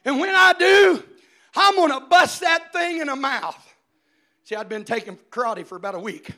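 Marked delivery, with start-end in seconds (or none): 0.0-3.7 put-on louder, higher kid's tough talk; brave threat. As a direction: act like Bruce Lee. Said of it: "I said".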